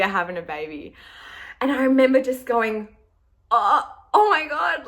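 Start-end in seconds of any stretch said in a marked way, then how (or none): 3.5-4.9 high, tearful oh my God; teary gasp. Retold or imitated. Wife alone in the bedroom, reading the test, tearful. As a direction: caught off guard, welling up. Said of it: "tears were pouring down my face".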